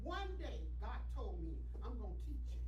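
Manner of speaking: loud, emphatic church testimony; preaching testimony. Real, not acted. Testifies to congregation at raised volume.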